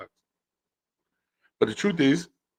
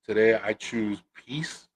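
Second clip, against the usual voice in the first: calm resigned; 6 dB quieter, slower than usual. Retold or imitated. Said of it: "And I said".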